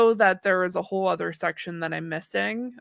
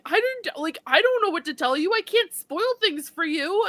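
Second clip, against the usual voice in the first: higher, pleading protest; half-hearted raised protest; mock yelling back; 8 semitones higher than usual. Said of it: "yelling at each other".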